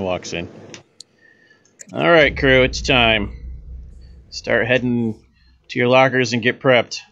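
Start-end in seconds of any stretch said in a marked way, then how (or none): 1.9-7.0 captain voice. Acted. GM voices the captain ordering crew.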